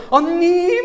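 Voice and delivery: high, loud gleeful call of sister; excited call. Retold or imitated. Imitating a young woman calling to her older sister. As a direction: call out with delight from a distance. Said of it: "막 이러면서".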